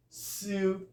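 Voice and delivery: Syllable split into its beats; teacher models Syllable in syllables. Shown as a demonstration. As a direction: break Syllable into its parts. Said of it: "It's having three syllable".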